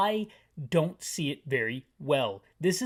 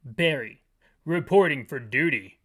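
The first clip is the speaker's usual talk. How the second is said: lower, louder Barry voice; 4 semitones lower, 4 dB louder than usual. Acted. Barry reporting for duty to the chief, low and loud. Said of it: "That's my Barry voice".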